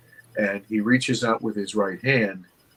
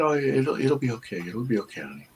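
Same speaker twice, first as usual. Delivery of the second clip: soothing mother; 3 semitones higher than usual. Retold or imitated. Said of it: "she said".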